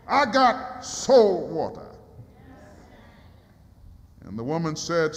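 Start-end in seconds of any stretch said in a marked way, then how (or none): 0.1-1.9 slow proclamation. Acted.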